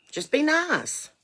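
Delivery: high, slow, drawn-out; slow sing-song. Real, not acted. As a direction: stretch it out sweetly. Drawn-out advice.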